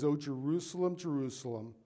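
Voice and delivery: lament. Retold or imitated. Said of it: "This is Jesus crying out".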